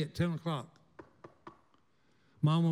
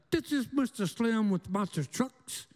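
slow, put-on phone voice, a bit higher; disguised voice; 4 semitones higher than usual. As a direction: fake a stranger's voice on the phone. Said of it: "it sounds like it's being disguised".

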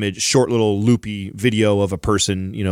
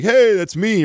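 retold higher-pitched "hey" of recognition; excited greeting; 11 semitones higher than usual. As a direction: pipe up as if spotting yourself. Retold greeting from the gif's man.

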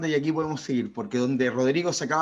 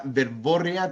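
verborrea with BO stressed; much slower than usual. Shown as a demonstration. Co-host explaining the accent rule, verborrea stressed on BO. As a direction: say verborrea as ver-BÓ-rre-a. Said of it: "tendría tilde en la O".

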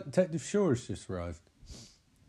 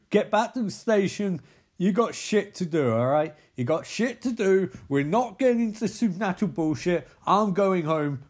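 mock angry boss; 3 semitones higher, 4 dB louder than usual. Boss yelling at detective to drop case.

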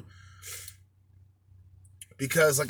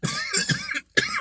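coughing fit. Real, not acted. Coughing fit after smoking.

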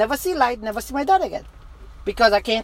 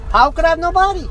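raised pitch, panicked disbelief; retold scream; 5 semitones higher, 3 dB louder than usual. Man recounts losing his body, retold scream. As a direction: relive crying out, short of a real scream. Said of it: "Screaming, tears running out my eyes".

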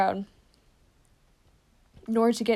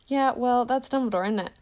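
mysterious; 3 semitones higher than usual. Acted. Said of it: "said Hagrid mysteriously".

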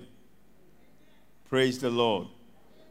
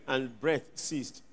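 slow, much softer trailing off; fading breath; 6 semitones lower, 11 dB quieter, slower than usual. Acted. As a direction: let the words die away. Jesus dying.

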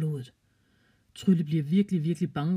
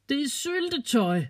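Trylle squeaks it out high and slow; high girlish exclaim, slowing down; high child voice; 10 semitones higher, slower than usual. A narrator's reading. Girl tells her startled parents: high, slow squeal. Child explains jam, laughing.

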